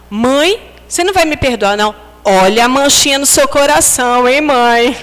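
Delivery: put-on a cheeky kid reminding mom of her own words.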